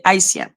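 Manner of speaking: Haitien with silent H, ah-ee-syen; French pronunciation. Shown as a demonstration. Teaching Ralph how French says it, French pronunciation. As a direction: say Haitien the French way, three syllables. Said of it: "In French, you say".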